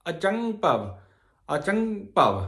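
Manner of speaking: ਅਚੰਗ ਭਵ said clearly, nasal ṅ in ਅਚੰਗ; ਅਚੰਗ ਭਵ spelled out slowly; pronunciation of ਅਚੰਗ ਭਵ. Shown as a demonstration. Teacher models ਅਚੰਗ ਭਵ for the congregation. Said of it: "ਏਦਾਂ ਉਚਾਰਨ ਕਰਨਾ ਆ".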